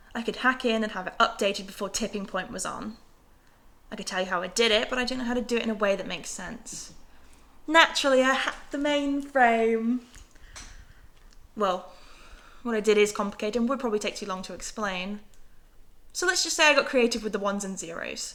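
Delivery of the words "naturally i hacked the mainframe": slow, sarcastic, knowing drawl, like an aside. Character explaining how they updated it before the tipping point, sarcastically.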